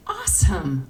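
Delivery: a touch of dry sarcasm; understated, sarcastic "awesome"; dripping sarcasm. Acted. Customer frustrated after a stare down, mildly sarcastic. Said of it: "dripping with sarcasm".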